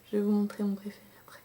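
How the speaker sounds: whisper. Real, not acted. Teasing favourite shade to viewers.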